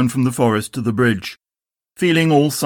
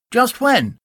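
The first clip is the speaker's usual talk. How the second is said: higher, a touch uncomfortable; uneasy Tigger; 11 semitones higher than usual. Acted. Tigger answers Rabbit, a little uncomfortable. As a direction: dodge the question uneasily. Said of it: "a little uncomfortably".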